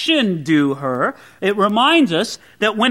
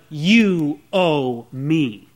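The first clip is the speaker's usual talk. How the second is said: very slow, dropped lower, "you owe me" set apart; contrast you owe me; 5 semitones lower, much slower than usual. Shown as a demonstration. Preacher contrasting demanding with giving, slow and low. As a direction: say "you owe me" slowly and low as the wrong idea. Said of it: "instead of".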